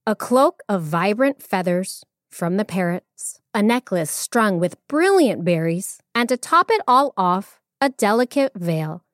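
expressive storyteller reading; measured, animated storytelling; story narration. A narrator's reading. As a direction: read it like a tale for children.

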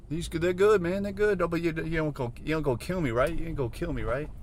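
high, nervous spider voice; anxious little creature, seeking reassurance; Recluse. Retold or imitated. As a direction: plead meekly in a squeaky put-on voice. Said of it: "freaking Recluse, the spider".

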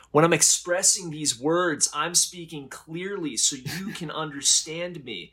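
high, stiff, over-enunciated speech; robot voice. Retold or imitated. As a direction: speak like a text-to-speech bot. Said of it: "Robot voice".

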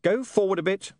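mildly commanding. Acted. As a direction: give a brisk order. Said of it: "William commanded".

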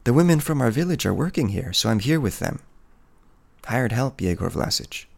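a touch of the timid wife explaining herself; lightly voiced peasant woman. Peasant woman explaining to the hunter why she is here, lightly voiced and shy.

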